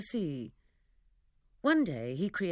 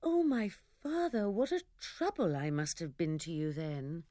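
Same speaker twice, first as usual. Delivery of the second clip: amazed cry. Acted. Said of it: "cried out".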